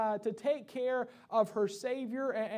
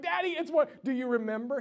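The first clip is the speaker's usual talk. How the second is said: high, eager burst to a parent; excited child; 3 semitones higher, 3 dB louder than usual. Retold or imitated. Son pestering daddy about his birthday, excited. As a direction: imitate a kid who can hardly wait. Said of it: "he's all excited".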